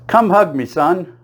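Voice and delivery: high, loud, overjoyed embrace call; the mailman greets his long-lost son, high and loud; gushing mailman. Retold or imitated. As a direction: throw your arms open and gush it. Mailman revealed as real father.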